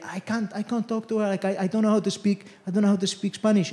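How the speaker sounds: lightly acted fluster, softly stumbling over words; mild panic. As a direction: retell a flustered mum's worried protest. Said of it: "She was panicking".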